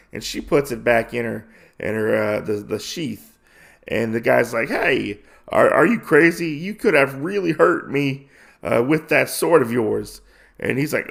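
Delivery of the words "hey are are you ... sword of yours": higher, louder indignant cry; hammed-up startled protest; mock outrage. Sleazy guy yells at the swordswoman, mock outraged shout. Man angry after sword drawn.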